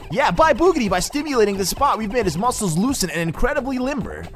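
high, formal mock Indian accent; Toadsworth, Indian accent. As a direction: announce a discovery in a put-on Indian accent. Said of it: "I like giving him an Indian accent".

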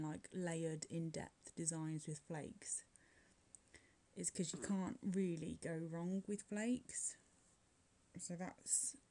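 breathless, airy delivery; talking while short of breath. Real, not acted. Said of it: "I sound like I'm out of breath".

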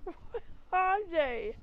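high teary alarmed question; mock alarmed villager; alarmed cry. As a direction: ask in distress. Villager alarmed by stung player.

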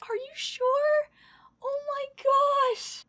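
very high, drawn-out amazement; real high-pitched awe; overwhelmed disbelief. Real, not acted. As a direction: squeak it out in stunned disbelief. Overwhelmed by the gift.

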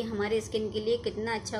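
muffled through fingers; speaking behind hand; hand over mouth. Real, not acted. Seen 0: Hand covers her lips from 0.6 to 1.7s; free before and after.

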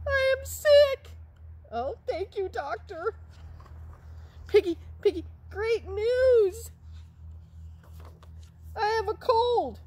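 very high, loud squeaky cheer; high excited puppet voice. Pretend. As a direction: announce it like great news.

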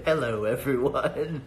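slow mock alien imitation. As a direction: copy the strange alien sound slowly. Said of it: "Why do you sound like an alien?".

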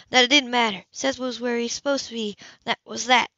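a hint of a caring older woman, gently worried; lightly voiced older woman. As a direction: speak to him like a fond neighbour breaking bad news. Woman character voiced in story.

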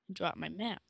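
whispered to himself. Real, not acted. Player whispering his moves to himself, whisper. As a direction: mutter the moves under the breath. Whispering during own turn.

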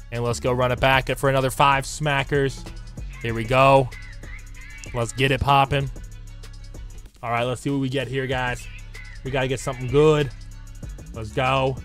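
hoarse, raspy recovering voice; smoker's rasp. Real, not acted. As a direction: rasp like a long-time smoker. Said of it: "I sound like I've been smoking".

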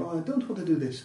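amateur imitation of a Russian accent. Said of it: "best Russian accent. I do apologise".

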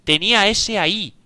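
real gamer rage at dying; frustrated outcry. Real, not acted. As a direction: shout it out at the unfair death. Just died in the game.

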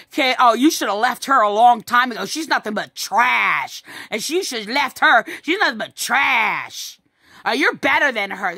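imitated taunt. Son runs mother down to her abuser, imitated taunting. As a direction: act out his scorn, dragging out TRASH. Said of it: "This is what he's doing".

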